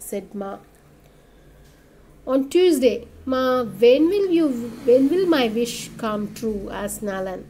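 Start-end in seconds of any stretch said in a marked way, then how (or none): 2.3-6.6 put-on impatient little boy asking when his wish comes true; pleading child. Child Nalan pleading with mother.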